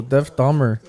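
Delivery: "Deaf" said for Jeff in "Deaf Dahmer"; mispronounced name. Real, not acted. Host naming the guest's show, mispronounced as "Deaf Dahmer". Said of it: "He said Deaf".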